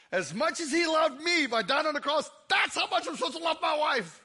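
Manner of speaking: high, fervent declaration; preacher at an emotional peak; impassioned preaching. Real, not acted. Preacher driving home his point.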